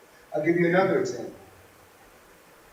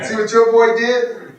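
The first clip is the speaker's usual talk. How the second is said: higher, louder complaint, your stressed; blaming dad; 4 semitones higher, 5 dB louder than usual. Retold or imitated. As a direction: accuse the mother. Dad blaming mother for boy.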